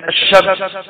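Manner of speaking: "الشمس" as ash-shams, the l silent and sh doubled; merged lam. Shown as a demonstration. Teacher gives students an example word, lam merged. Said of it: "الإظهار مثلًا زي".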